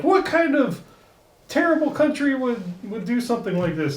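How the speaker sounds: high, mock-outraged Homer voice; Homer impression. Podcast host quoting Homer, mock-outraged high voice. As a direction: squawk it like an indignant Homer. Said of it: "And Homer's like".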